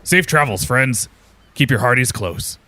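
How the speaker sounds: lightly acted parting call; mild shouted farewell. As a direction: call after departing friends without full force. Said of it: "Captain Wolf shouts after you".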